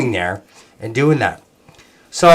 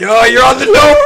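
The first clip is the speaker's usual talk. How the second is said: higher, louder joking shout; teasing call-out; 10 semitones higher, 4 dB louder than usual. Real, not acted. Calling out to friends passing dope, loud teasing shout. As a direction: yell over to them, teasing.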